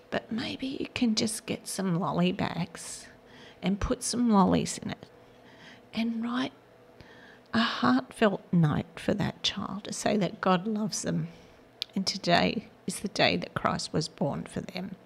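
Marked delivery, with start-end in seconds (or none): 0.1-3.1 tearful near-whisper; close to tears. Real, not acted. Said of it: "Now I'm gonna cry". 7.5-15.0 tearful whisper; holding back tears, barely voiced; close to tears. Real, not acted. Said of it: "Now I'm gonna cry".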